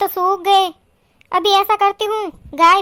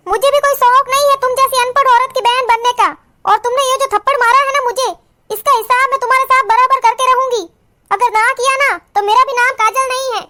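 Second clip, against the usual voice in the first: mildly raised, acted defiance; angry vow; 3 semitones higher than usual. Slapped Kajal threatening revenge on her sister-in-law, defiant. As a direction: vow to pay her back.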